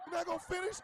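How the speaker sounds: high-pitched partner's question; puzzled partner. Acted. Voices partner asking him.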